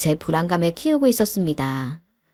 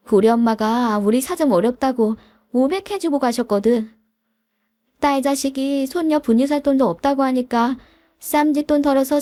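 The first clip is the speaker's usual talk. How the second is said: rising higher as anger builds; a wife getting more heated line by line; angry scolding; 6 semitones higher than usual. Acted. (남편을 꾸짖는 아내, 점점 격해지는 말투)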